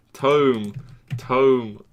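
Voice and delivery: "Tome" said loudly with a long oh; practised pronunciation. Shown as a demonstration. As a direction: drill "Tome" to rhyme with dome. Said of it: "You're supposed to say Tome".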